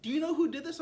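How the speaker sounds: mocking the truck owner's wail over his tires; mock whine. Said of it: "He's like".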